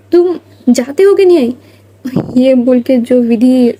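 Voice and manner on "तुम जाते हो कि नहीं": put-on high, sharp yell at the kids. Vidhi yells at the three kids to leave, loud and high. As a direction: shout them out of the room. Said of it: "चिल्लाती है उनके ऊपर".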